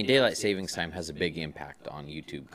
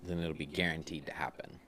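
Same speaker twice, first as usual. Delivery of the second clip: whispered aside; 2 semitones lower, 7 dB quieter than usual. Real, not acted. Joking the president will act.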